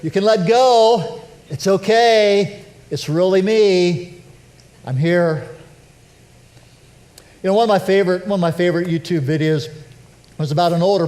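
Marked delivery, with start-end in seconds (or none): 0.0-5.5 slow, tender and reassuring; slow, tender words to Mary while she still holds him; gentle reassurance. Retold or imitated. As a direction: soothe her gently as she clings on. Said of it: "it comes to the point where Jesus".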